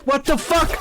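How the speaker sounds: rising shocked squeak; baffled high-pitched cry; high startled what the fuck. Real, not acted. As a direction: pitch climbing in disbelief. Startled by something in game.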